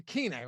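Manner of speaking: Kene said as KEE-nay; tentative name pronunciation. Shown as a demonstration. Host checking how to say a player's name, Kene pronounced KEE-nay. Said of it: "I think that's how you say it".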